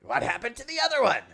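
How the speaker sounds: urgent, high cartoon voice; high-pitched game characters. Customer urgently needs a replacement lute, high theatrical cartoon voice.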